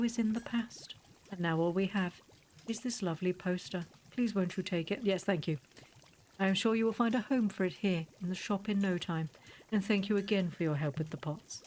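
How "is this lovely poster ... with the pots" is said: lightly voiced formal shopkeeper; a hint of an overly polite old shopkeeper; Borrow. Streamer reading the shopkeeper's lines to the player, lightly voiced.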